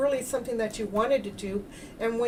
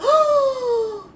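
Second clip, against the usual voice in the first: high, slow astonished "oh"; amazed; 7 semitones higher, 6 dB louder, much slower than usual. Retold or imitated. Healer reliving her amazement at two words, slow and awed. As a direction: marvel slowly at the discovery. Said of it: "and I went, gasps".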